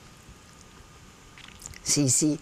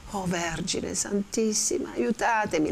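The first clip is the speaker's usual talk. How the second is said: tearful prayer; 5 semitones higher than usual. Acted. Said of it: "esclamò ... occhi pregni di lacrime".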